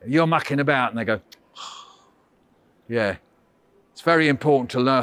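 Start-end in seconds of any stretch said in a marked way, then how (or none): 1.6-3.2 weary sigh then a soft, low yeah; huffy older sister. Retold or imitated. Host imitating an older sister's huffy sigh. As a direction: sigh like a fed-up big sister. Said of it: "Older sisters are really good at going".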